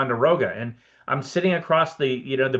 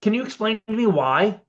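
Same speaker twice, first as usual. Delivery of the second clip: much higher curious Warren Beatty; Warren Beatty impression; 9 semitones higher than usual. Warren Beatty asks the editor why, high curious voice. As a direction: ask it lifted high, genuinely curious. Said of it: "He's like".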